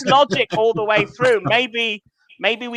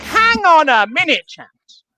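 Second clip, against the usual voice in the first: posh English gent. Retold or imitated. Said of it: "I was like".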